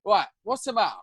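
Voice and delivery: high-pitched, exasperated mock questioning; retold wound-up demand. Boyfriend pressing his crying girlfriend, imitated exasperation. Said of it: "I was started getting wound up".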